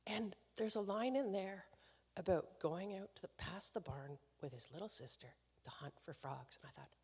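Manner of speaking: ordinary delivery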